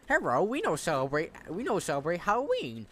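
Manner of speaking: exaggerated mock Asian accent with slurred consonants; caricatured Asian accent, badly faked. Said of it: "that was a bad Asian accent".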